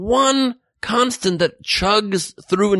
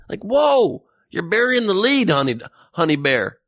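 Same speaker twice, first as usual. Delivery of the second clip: mock astonishment; 3 semitones higher than usual. Host reacts to buried news.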